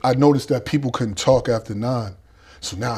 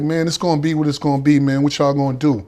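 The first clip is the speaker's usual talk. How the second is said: defiant; 4 semitones higher, 5 dB louder than usual. Retold or imitated. Defiant standoff with older inmates.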